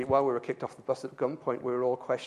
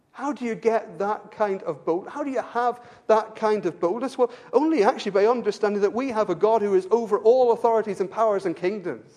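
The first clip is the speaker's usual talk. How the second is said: raised, emphatic pulpit voice; impassioned preaching; 6 semitones higher, 7 dB louder than usual. Real, not acted. Preacher urging boldness through trust in God, impassioned. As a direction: build to a loud declaration. Preacher answers own question forcefully.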